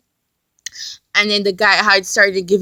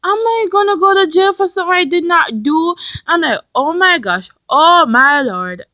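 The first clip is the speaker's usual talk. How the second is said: high, distressed mock plea; close to crying; 6 semitones higher, 4 dB louder than usual. Retelling fear of jail to viewers, close to crying. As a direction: reenact near-tearful disbelief. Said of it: "I was gonna cry".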